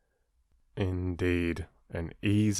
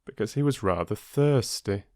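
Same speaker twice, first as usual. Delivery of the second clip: gentle storyteller reading a fable; story narration. A narrator's reading. Narrator reading the dog fable to listeners, storytelling voice. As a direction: tell it like a bedtime fable. Reads Aesop fable aloud.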